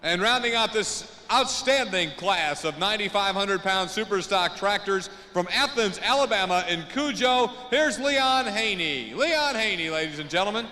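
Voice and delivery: booming arena PA announcer; tractor pull announcer. Real, not acted. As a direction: sell each driver to the crowd. Announcing drivers to arena crowd.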